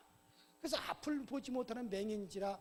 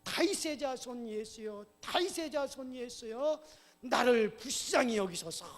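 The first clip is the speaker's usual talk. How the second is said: louder crying out; 6 dB louder than usual. Acted. Beggar, hushed by the crowd, calls Jesus, crying louder. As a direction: cry out harder, stretching the words. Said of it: "큰 소리로".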